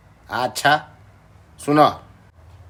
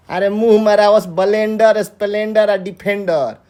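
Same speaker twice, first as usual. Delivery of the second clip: raised pitch, irritated outburst; mildly angry, higher-pitched protest; exasperated retort; 4 semitones higher than usual. Acted. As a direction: snap back, fed up with the demands. Fed-up retort about demanded gifts.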